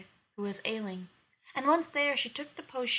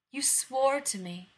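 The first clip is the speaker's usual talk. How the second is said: slow stern reminder; 4 semitones higher, 5 dB louder, slower than usual. Acted. Winter bride warns the queen.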